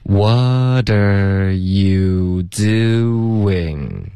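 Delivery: extremely drawn-out, every syllable held long; very slow repetition. Shown as a demonstration. Teacher leading repeated practice, extremely slow. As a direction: stretch each word as far as it goes. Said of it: "我们再说几遍".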